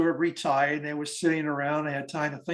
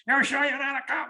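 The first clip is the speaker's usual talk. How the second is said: put-on suspicious old lady; 11 semitones higher, 3 dB louder than usual.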